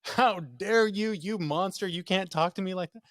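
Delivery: high, loud mock indignation; hammed-up scandalized scolding; imitated outrage. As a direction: play the affronted wife, drawing out the opening. Acts wife's outraged reply.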